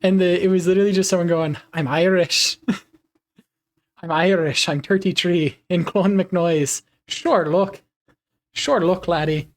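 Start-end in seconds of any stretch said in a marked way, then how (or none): 1.7-2.6 imitating an Irish accent tutorial; joking put-on Irish lilt; mock Irish accent. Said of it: "how to sound Irish". 4.0-9.5 imitating an Irish accent tutorial; hammed-up Irish brogue; mock Irish accent. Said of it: "how to sound Irish".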